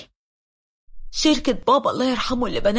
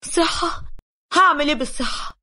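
angry scoff; 4 semitones higher than usual. Retold or imitated. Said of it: "اتعصبت عليها وقلت لها".

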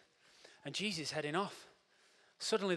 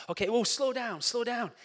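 firm coach call; 5 semitones higher, 5 dB louder than usual. Acted. Acted coach slowing runner.

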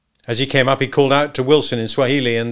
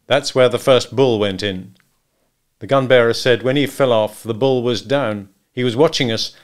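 hunter firmly relaying a report; a touch louder, matter-of-fact hunter; lightly voiced Wilson; 2 semitones higher, 5 dB louder than usual. Hunter tells how the bull escaped, matter-of-fact.

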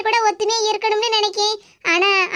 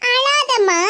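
mock pampering; much slower than usual. Jealous daughter mocking her mother's pampering of the daughter-in-law, mock tender. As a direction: sneer at the babying by copying it. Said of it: "அழாதம்மான்னு செல்லம் கொடுத்துக்கிட்டு இருக்காவோ".

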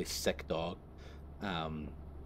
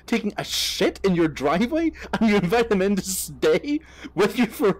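much higher, louder, slow disbelief; incredulous; 13 semitones higher, 9 dB louder, slower than usual. Real, not acted. Asking viewers who would invite such a guy, incredulous. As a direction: stretch out the disbelief like it's absurd. Incredulous rant at the absurd story.

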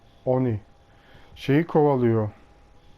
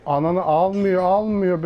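being chased; 5 semitones higher, 4 dB louder than usual. Real, not acted. Killer chasing him.

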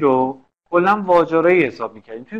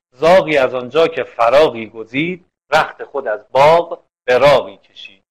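verse recitation; 4 dB louder than usual. Shown as a demonstration. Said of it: "خب نگاه کن".

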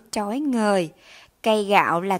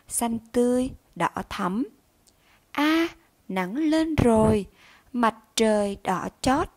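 model poem reading. Shown as a demonstration. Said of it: "các em nghe cô đọc mẫu".

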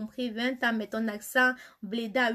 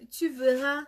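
ordinary talk

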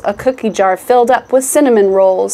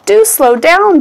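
high, louder plea to slow down; pleading cry, pitched up; 8 semitones higher, 4 dB louder than usual. A narrator's reading. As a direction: call out breathlessly to the runaway furniture. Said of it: "Bellwood cried".

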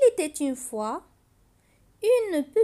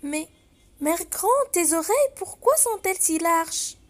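put-on curious little girl; 3 semitones higher, 3 dB louder than usual. Girl questions disguised wolf.

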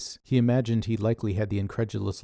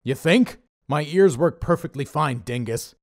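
louder, sneering boss voice; sarcastic Dave; 6 semitones higher, 7 dB louder than usual. A narrator's reading. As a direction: snap back at your flunky with sarcasm. Dave snapping at Pete.

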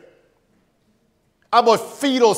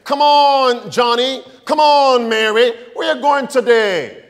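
cheerful churchgoer; 3 semitones higher, 3 dB louder than usual. Retold or imitated. Congregant voiced inviting friends.

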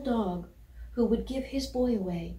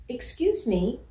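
polite call out; 2 semitones higher, 4 dB louder than usual. Acted. Puppy politely calling to a collie chasing a bicycle, louder. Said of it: "He called out to the collie".

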